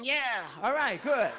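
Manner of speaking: a blurted puppet answer. Acted. Puppet Paco agrees to work with Camille.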